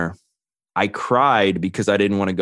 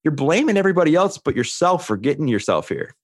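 tough cellmate; 8 semitones higher than usual. Retold or imitated. Cellmate calling him out.

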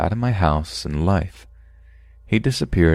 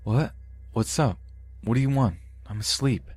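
higher, softer groggy voice; fake sleepy voice; 6 semitones higher, 6 dB quieter than usual. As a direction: pretend you just woke up. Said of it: "faked a sleepy voice".

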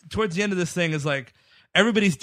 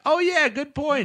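character voice; 8 semitones higher than usual. Retold or imitated. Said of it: "And he's like".

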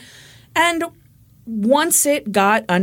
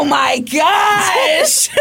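surprised; 8 semitones higher, 4 dB louder, much slower than usual. Real, not acted. Embarrassed at being called out.

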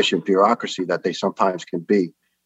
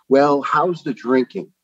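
slow, higher imitation of a doctor; insinuating question; 6 semitones higher, 4 dB louder, slower than usual. Doctor asks patient right away about drinking, insinuating. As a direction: draw out a pointed, high-pitched query.

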